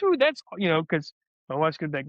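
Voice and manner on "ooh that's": high, loud mock delighted ooh; imagined wife impressed. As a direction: play the wife thrilled by the snacks. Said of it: "she's gonna be like".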